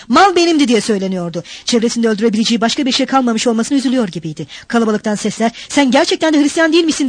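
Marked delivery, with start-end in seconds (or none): 0.1-0.7 high, loud, stubborn self-justification; raised, resentful protest; angry grumbling. A narrator's reading. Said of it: "öfkeyle duruyor". 5.7-7.1 mildly raised, higher-pitched reproach; a touch of outrage; accusing shout. A narrator's reading. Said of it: "diye bağırdılar Mikolka'ya".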